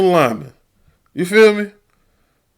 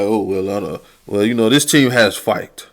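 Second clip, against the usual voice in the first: mocking coach excuse; 8 semitones lower, 5 dB quieter than usual. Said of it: "come back and be like".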